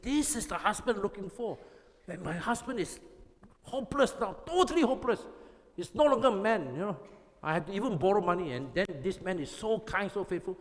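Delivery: a wife pouring out her woes about her husband; complaining wife. Retold or imitated. Wife telling a coworker about her hopeless husband, rising complaint. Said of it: "She said".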